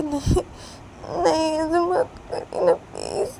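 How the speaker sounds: high, loud desperate begging; begging a mother to stop; tearful pleading. Acted. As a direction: plead through tears. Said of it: "Ruhi बोलती कि".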